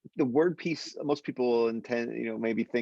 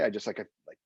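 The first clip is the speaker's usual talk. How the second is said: usual speaking voice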